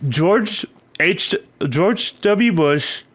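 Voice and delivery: talking through a mouthful; chewing while talking; mouth full. Real, not acted. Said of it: "Sorry, I got a mouthful of pepperoni".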